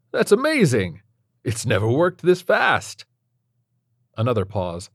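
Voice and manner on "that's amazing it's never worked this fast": high, loud excited chirp; thrilled doctor. A narrator's reading. Doctor thrilled his procedure worked so fast. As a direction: gush like a thrilled scientist. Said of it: "chirpy and grating voice".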